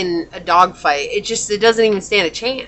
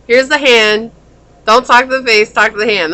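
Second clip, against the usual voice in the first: louder, sassy "talk to the hand"; sassy brush-off; 3 semitones higher, 6 dB louder than usual. Retold or imitated. Reader voicing the client rejecting a suitor, louder and sassy. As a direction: hold up a hand and sass them. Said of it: "You're like".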